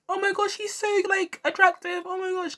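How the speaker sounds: mock fangirl swooning over a singer. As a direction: gush like a starstruck fan. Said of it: "I wasn't like".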